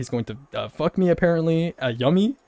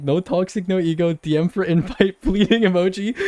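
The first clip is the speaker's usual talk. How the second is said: mocking; 3 semitones higher than usual. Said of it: "I make fun of him".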